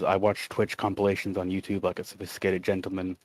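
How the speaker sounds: flat, bored chat reading; monotone voice. Shown as a demonstration. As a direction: read it dead flat. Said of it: "reading it in a very monotone voice".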